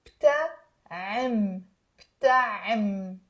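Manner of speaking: بتعم slow and drawn out, B joined to T; low, deliberate بتعم, holding the final M; syllable drill. Shown as a demonstration. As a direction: stretch بتعم for learners to echo. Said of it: "Now say".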